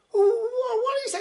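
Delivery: high stammer of terror; stammering fright. Acted. Barman stammers high in fright after seeing the devil. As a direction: stumble over the question in panic.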